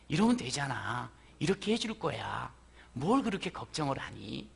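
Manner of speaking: soft, low reassuring question; gentle coaxing. Acted. God calming worried Moses, soft and coaxing. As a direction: coax a worried child softly. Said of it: "하는 거예요".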